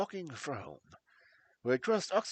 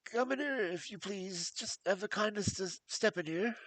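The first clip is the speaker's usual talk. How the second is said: higher, anxious voice of a frightened man; nervous fat patient; 5 semitones higher than usual. Acted. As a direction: plead with jangled nerves. Blessington leads them in.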